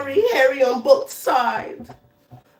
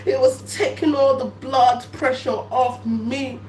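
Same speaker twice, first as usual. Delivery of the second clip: normal talking voice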